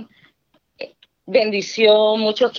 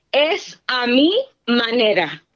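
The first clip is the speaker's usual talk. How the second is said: stern voice of God; 3 semitones higher, slower than usual. Retold or imitated. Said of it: "el Señor regañándome".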